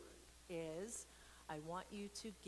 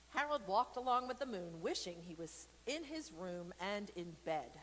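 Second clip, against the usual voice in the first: lively read-aloud storytelling voice; story narration; 3 dB louder than usual. A narrator's reading. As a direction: read it to the kids, bright and clear. Reads picture book aloud.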